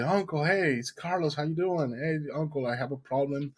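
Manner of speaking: high, bright nervous phone hello; eager greeting. Retold or imitated. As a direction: sound friendly before asking. Nervous call to rich uncle.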